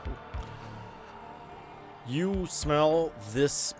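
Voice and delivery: ordinary talk, nothing marked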